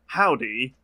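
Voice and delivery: mock British actor's American accent; bad American accent. Imitating British TV actors playing Americans, bad American accent. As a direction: put on an awkward American accent. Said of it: "get British actors to do Americans".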